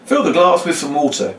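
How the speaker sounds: lightly theatrical announcement; elaborated announcement. Shown as a demonstration. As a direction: read it out with a flourish. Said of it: "I'm kind of elaborating it".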